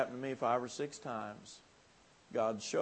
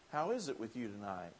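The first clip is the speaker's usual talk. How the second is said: tender quiet appeal; 4 semitones lower, 7 dB quieter than usual. Acted.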